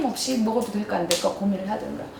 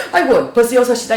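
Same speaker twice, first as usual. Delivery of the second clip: mock startled sigh; 6 dB louder than usual. Mom startled by the clock.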